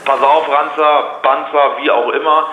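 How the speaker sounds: loud, slow menacing warning; angry threat. Real, not acted. Seller threatening the prank caller, loud and slow. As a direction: bark the threat at him.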